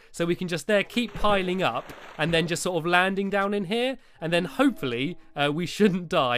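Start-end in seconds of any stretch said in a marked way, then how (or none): 4.4-5.2 "hopefully" given extra weight; emphasis on hopefully. Real, not acted. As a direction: stress the word "hopefully". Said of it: "A big emphasis on the, uh, on the hopefully".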